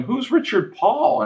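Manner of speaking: high, slow imitation of mom puzzled; imitating mom. Son imitating his mom asking who the actor is, high and slow. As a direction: pitch up and drag out mom's confused question.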